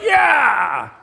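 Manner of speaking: loud high cheer; audience cheer. Retold or imitated. Moviegoer cheering the princess's reveal, loud and high. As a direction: cheer like the crowd at the big moment. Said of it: "You're like".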